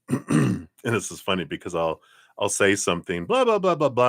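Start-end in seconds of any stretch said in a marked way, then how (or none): 3.2-4.1 mock chatter. Filler standing in for her joke.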